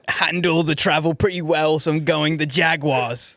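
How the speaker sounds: lightly put-on Australian accent on a football pick. Making a pick for the podcast in a light Australian accent. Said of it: "That was more Australian".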